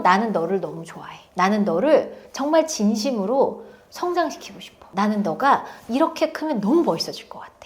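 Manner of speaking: soft, sincere encouragement; quiet heartfelt reassurance; sincere like a friend. Retold or imitated. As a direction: tell them gently you believe in them. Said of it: "친구처럼".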